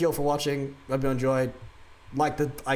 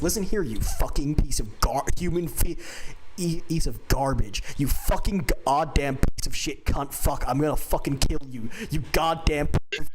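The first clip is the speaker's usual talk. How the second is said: a slightly raised, hammed-up imitation of an angry tirade; mock swearing rant; 2 semitones higher than usual. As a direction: mildly yell the insults as if quoting a wrestler. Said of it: "Bryan Danielson says".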